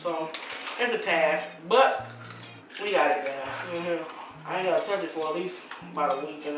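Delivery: chewing while talking; talking between bites; mouth full of popcorn. Real, not acted. Seen 1: Adult holds popcorn bag, hand repeatedly at mouth while speaking.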